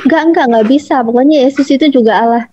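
mildly stubborn mock insistence; insistent. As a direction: imitate a friend digging in. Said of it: "Kamu tuh ngotot".

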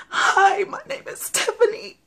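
high, forced cheery greeting with a laugh; bright audition smile cracking into laughter. Acted. Rehearses audition line, laughing.

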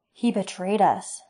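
slow, stunned disbelief; stunned wonder. Acted. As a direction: let it dawn on you slowly. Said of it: "said Rorin with wonder".

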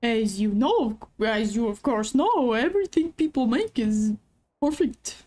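lightly voiced rambling old man; a hint of a wistful old man; grandpa voice. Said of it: "Grandpa voice".

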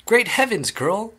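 high-pitched exclamation of horror; screech. A narrator's reading. Mother aghast at her daughter, screeching high. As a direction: screech it, starting loud. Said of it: "screeched Missus Beauregard".

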